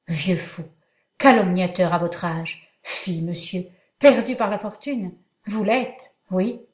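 hammed-up dramatic accusation. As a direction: declaim it theatrically. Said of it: "d'un ton dramatique".

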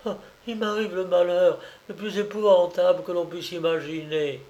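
a hint of a voice breaking; broken voice. Daughter confessing misfortune to her mother, lightly broken voice. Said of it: "d'une voix brisée".

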